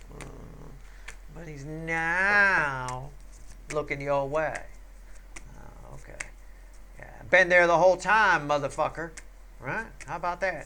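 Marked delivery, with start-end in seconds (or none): 1.6-3.1 stress on 'now', stretched out. Reader doing a reading for the listener, stress on 'now', stretched out. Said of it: "Emphasis on the word now with a stretched out O".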